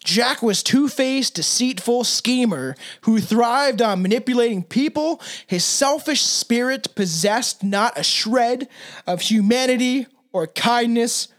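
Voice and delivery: slow, drawn-out campfire-tale read; lightly hammed spooky storyteller; spooky story narration. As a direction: tell it like a ghost story, slowly.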